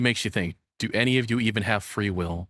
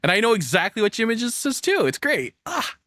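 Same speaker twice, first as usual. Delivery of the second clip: mock swoon; 11 semitones higher than usual. Real, not acted. Streamer mock-swooning over an anime character. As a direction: savor it like a guilty treat.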